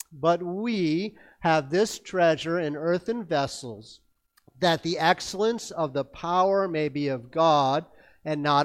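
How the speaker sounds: slow, measured verse recital; scripture reading. Acted. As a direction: read scripture slowly aloud. Reads memory verse slowly aloud.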